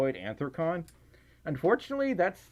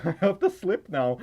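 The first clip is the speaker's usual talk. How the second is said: voice glitch; 3 semitones higher, 4 dB louder than usual. Real, not acted. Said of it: "What happened to my voice there?".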